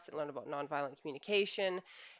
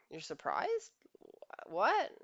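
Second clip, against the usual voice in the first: mock disbelief; 3 semitones higher, slower than usual. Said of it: "And she's like".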